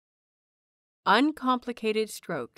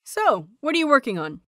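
bright friendly; 4 semitones higher, 5 dB louder than usual. Acted. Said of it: "smiles his brightest smile".

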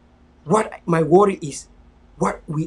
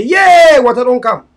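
high, loud sarcastic mock cheer; mock grumbling; 5 semitones higher, 8 dB louder, slower than usual. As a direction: imitate an ungrateful complainer. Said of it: "you know, go say".

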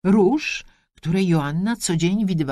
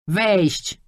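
louder, sharp call to come in; shouted "come in", louder; shouted command; 5 semitones higher, 4 dB louder than usual. A narrator's reading. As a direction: bark it at the door. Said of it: "krzyknęła".

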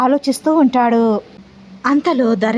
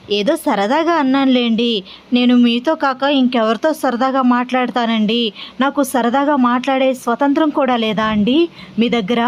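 ordinary delivery

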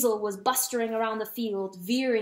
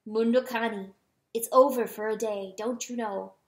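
grave manner. Acted. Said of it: "in a manner more grave".

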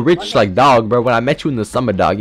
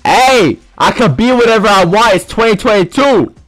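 indignant; 5 semitones higher than usual. Pretend. Protests being called a dog.

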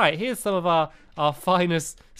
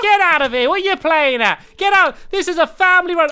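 loud, high-pitched tirade; hammed-up angry yelling; mock outraged shout; 10 semitones higher, 6 dB louder than usual. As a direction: throw them out in pretend fury. Shopkeeper throws out the squid.

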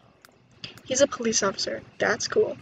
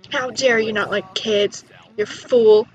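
mock scolding; 2 semitones lower, 5 dB louder, slower than usual. Scolds a Sim in the game.

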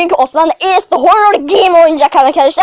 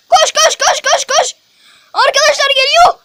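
laughing panic; 7 semitones higher than usual. Real, not acted. Running away laughing.

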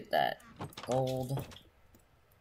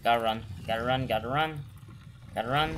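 being chased; faster than usual. Real, not acted. Fleeing the Witherstorm.

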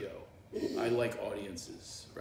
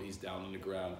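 ordinary delivery

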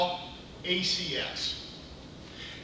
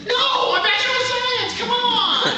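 loud mock protest; 7 dB louder, slower than usual. Real, not acted. Protesting laughing audience.

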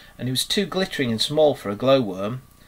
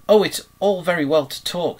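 mildly pettish, higher and louder; a touch of petulance, pitched up; 6 semitones higher, 5 dB louder than usual. A narrator's reading. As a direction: grumble it a little pettishly. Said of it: "rather pettishly".

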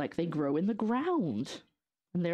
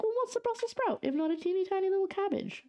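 playful quoted thought. Retold or imitated. Retelling her own thought.

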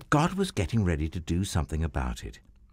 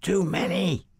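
exasperated Abraham; 10 semitones higher than usual. Acted. Abraham giving up counting.

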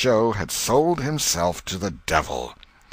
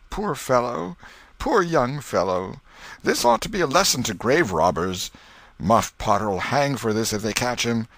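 lightly voiced pitying townsman; a hint of rustic onlooker, shaking his head; townsfolk gossip; 5 semitones higher than usual. Onlooker at the graveyard pities the dead man, lightly voiced.

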